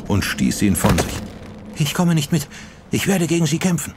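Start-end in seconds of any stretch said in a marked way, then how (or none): 1.8-3.9 defiant refusal. A narrator's reading. Sachiko weigert sich trotzig.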